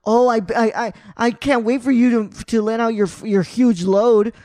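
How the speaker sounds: mock creepy coach voice; mock creepy line. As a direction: drag out huge load, hamming it up. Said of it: "when I heard him, like, say".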